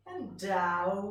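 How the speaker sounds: DOWN stretched in a falling slide; voice going down. Shown as a demonstration. Teacher describing the falling beanbag, sliding down on DOWN. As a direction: let DOWN sink as it is said. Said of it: "Do you notice the way my voice goes".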